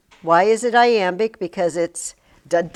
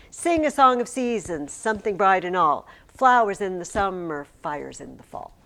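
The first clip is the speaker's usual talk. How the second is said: chanted rhythmic poem reading; sing-song poem recitation. Shown as a demonstration. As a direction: recite verse with a strong regular beat, falling at line ends. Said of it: "when you read poetry, it's, I'm not doing it".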